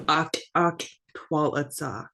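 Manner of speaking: "Ak ak twalitza" with crisp clicked k's; careful sound demo. Shown as a demonstration. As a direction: say each "ak" short and sharp. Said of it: "Make sure you're making that sound".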